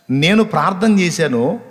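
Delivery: normal talking voice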